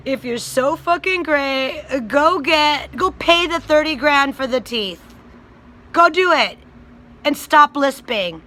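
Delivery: loud, heated challenge building to a shout; angry. Real, not acted.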